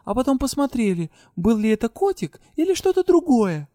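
resolute declaration. A narrator's reading. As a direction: lay down the law, defending the kitten. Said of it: "решительно поднялась и заявила". (решительное заявление Деи)

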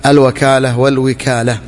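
slow: الوكالة as "al-wakala", then والوكالة as "wal-wikala"; fatha then kasra. Shown as a demonstration. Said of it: "بفتح الواو وكسرها".

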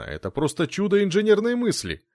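высоко, с восторгом; поражённый инженер восхищается; восхищённо. A narrator's reading. (восторженно, высоко)

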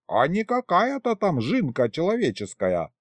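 high, folksy female voice; breezy kikimora. A narrator's reading. Kikimora brushing off grandfather, high and breezy. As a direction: announce plans in a high voice.

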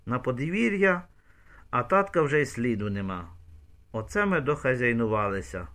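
plain reading voice

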